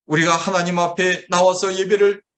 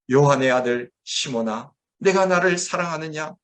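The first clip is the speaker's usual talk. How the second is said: tender voice. Retold or imitated. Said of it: "다정한 음성으로 다가오셔서 말씀하십니다".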